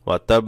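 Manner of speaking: ওয়া তাব with the b held, then lightly released; held doubled consonant. Shown as a demonstration. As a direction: linger on the closing b of তাব. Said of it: "সাকিন করে হালকা ধরতে হবে". (ওয়া তাব, শেষের ব একটু ধরে)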